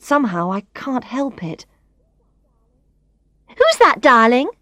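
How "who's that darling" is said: high and loud, meant to be overheard; Tanya asking Brad loudly about the assistant. Acted. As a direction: ask it loudly so the whole room hears. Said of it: "Tanya asks in a loud voice".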